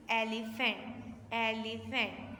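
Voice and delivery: एलिफेंट said slowly with a short e; teacher's careful एलिफेंट; slow model word. Shown as a demonstration. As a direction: spell out एलिफेंट syllable by syllable. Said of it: "हम इसको एलिफेंट पढ़ेंगे".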